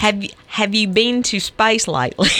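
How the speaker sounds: demonstrating an Australian accent. Shown as a demonstration. Host offering the other phrase, Australian accent. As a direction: model it in Australian. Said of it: "your best Australian accent".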